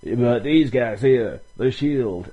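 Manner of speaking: put-on mumbling old wrestler. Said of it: "he kinda mumbled something".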